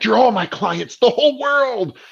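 mock-grand, as if embracing everyone; grand sweeping claim. Eager business owner to the world, grandiose. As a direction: pitch climbing high on the whole world, grandly. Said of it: "be like".

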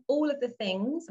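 ALL OF THE THINGS set apart in spoken air quotes. Real, not acted. Podcaster flagging her own loose phrase, in audible air quotes. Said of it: "I'm kind of air quoting".

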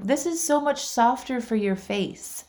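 imitating a considerate young waiter; kind server. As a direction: offer it slowly and sweetly, voice lifted. Imitating kind server offering napkin.

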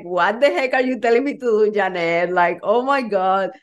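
imagined freak-out. Retold or imitated. Coach imagining Kim's reaction to her advice, mock freak-out. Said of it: "Kim is gonna freak out".

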